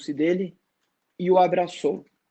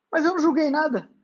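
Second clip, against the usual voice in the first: higher, bewildered protest; pitched-up confusion; confused; 10 semitones higher, faster than usual. A narrator's reading. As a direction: sound lost and puzzled. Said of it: "disse Mac confuso".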